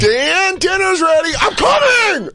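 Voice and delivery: very high calling shout; yelling across the room. Retold or imitated. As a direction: call out from the kitchen. Mom calling from another room.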